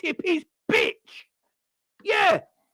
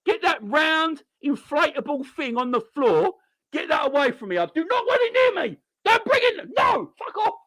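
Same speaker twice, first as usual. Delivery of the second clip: scared Matip; 5 semitones lower than usual. Retold or imitated. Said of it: "He's like".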